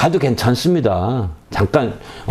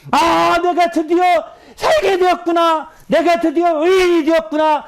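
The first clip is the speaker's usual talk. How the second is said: high, rapturous shout of relief; joyful outcry. Acted. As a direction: burst out with overwhelming joy. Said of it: "이에 북박쳐 오른단 말이죠".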